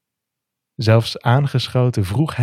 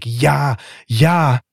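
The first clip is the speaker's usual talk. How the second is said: high, louder joyful yes; inner shout; 5 semitones higher, 3 dB louder than usual. Acted. Thomas cries yes inside to Alex, high eager shout. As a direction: let the yes burst out inside. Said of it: "Van binnen schreeuw ik".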